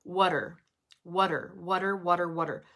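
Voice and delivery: "water" with "are" reduced to a short er. Shown as a demonstration. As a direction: drill "water" with a weak er ending. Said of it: "reduce the R down to er".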